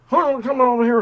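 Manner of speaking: lightly mocking a friend who talks with his mouth full; imitating Lance. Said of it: "Lance sounds like he has a mouthful of shit".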